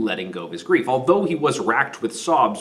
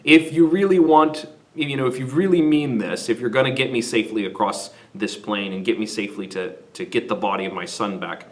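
prayer. Retold or imitated. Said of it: "and he prays".

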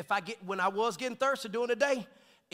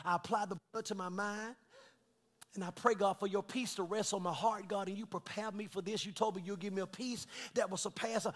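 softer, low, hushed prayer to God; quiet prayer; 5 semitones lower, 9 dB quieter than usual. Acted. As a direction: pray softly as if alone with the Lord. Soft prayer before the congregation.

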